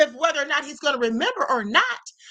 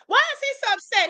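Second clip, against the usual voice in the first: much higher, insistent repeat; pointed repeat; 8 semitones higher than usual. Shown as a demonstration. Streamer presses viewers on the point, high insistent repeat. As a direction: hit WHY high to make them think.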